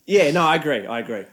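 stifled laugh under the words; biting back laughter; trying not to laugh. Real, not acted. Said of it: "he's holding back laughter".

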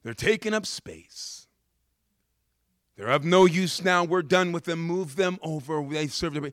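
loud, high-pitched master barking orders; master clearing the room. Retold or imitated. Master of the feast orders servants, loudly. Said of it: "You can hear the master say".

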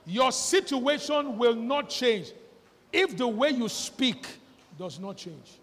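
slow and heavy, fading at the end; preacher repeating the lesson slowly for the congregation; slow emphatic. Shown as a demonstration. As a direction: press every word home. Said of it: "What did I say?".

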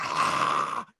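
whispered hiss like a charging goose. Retold or imitated. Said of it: "geese hiss. They hiss like cobras".

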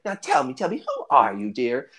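lightly voiced nosy grandmother; a hint of a fussy grandma questioning a guest; inquisitive old hobbit lady. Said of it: "she's like".

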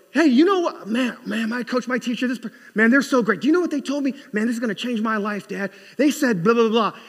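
high, loud gushing to Dad; excited kid. Acted. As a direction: rave about your new coach like a thrilled child. Child gushing to parent about coach.

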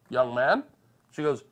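put-on old bingo lady scolding a sore loser. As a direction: lecture him like a prim old woman.

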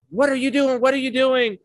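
high-pitched mock scolding; retold scolding mother. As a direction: imitate an exasperated mother catching her child. Mother scolding child in retold story.

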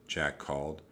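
ordinary delivery

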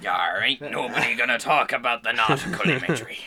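gruff mock pirate. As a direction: ham it up like a pirate. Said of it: "in a pirate voice".

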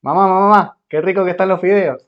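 put-on high, loud whiny kid calling mom; a child gushing over the noodles; kid Jaimito. Kid shouting to mom about noodles, high and loud. Jaimito repeats his line.

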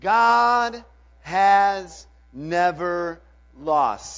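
slow, booming group declaration; slow loud declaration. Shown as a demonstration. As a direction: stretch every word out for the crowd. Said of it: "Say it with me".

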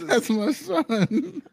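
high, slow, wailing "that's my son"; mock sobbing dad. Mocking the crying dad from the show. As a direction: ham up a weeping father's cry.

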